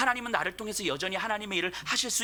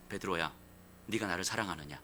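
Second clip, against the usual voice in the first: tender question; 9 semitones lower, 6 dB quieter than usual. Acted. Jesus gently asks Peter.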